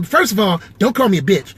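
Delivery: indignant comedian impression; lightly impersonated, mildly affronted comedian; Kevin Hart. Comedian objecting to being insulted, lightly done Kevin Hart voice. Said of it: "if I do Kevin Hart".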